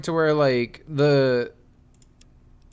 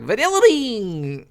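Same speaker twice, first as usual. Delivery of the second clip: commercial guy quote; 5 semitones higher, slower than usual. Retold or imitated. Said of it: "and he's like".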